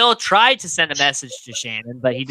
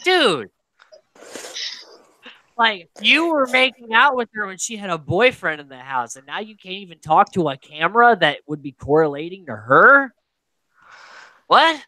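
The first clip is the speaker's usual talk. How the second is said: incredulous. Retold or imitated. Podcaster mocking Will for freezing on camera, incredulous. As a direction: call him out in disbelief. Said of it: "I'm like".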